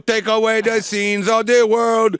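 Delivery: slow churchy priest chant; mock priest intoning.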